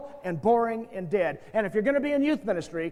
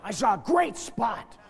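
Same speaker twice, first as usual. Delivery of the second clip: eager whisper; 5 dB quieter, much slower than usual. Retold or imitated. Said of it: "There's a bunch of you going".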